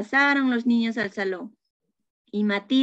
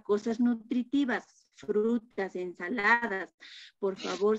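stern teacher scolding; 3 dB quieter than usual. Acted.

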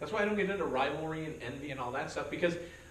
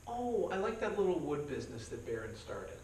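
backhanded compliment; 3 semitones higher than usual. Retold or imitated. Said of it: "You're ripping him".

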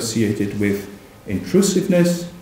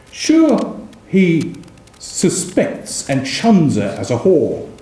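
poem reading; 3 semitones higher, slower than usual. Acted. Lecturer reciting verse to students, declaiming. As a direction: recite the old satire with relish. Reads satirical 17th-century poem aloud.

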